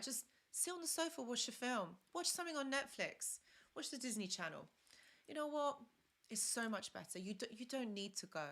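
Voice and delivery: a playful, mildly voiced inner tempter; tempting inner voice. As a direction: sweet-talk herself into skipping the gym. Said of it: "that thought where I was thinking".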